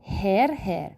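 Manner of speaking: slow model sentence. Shown as a demonstration.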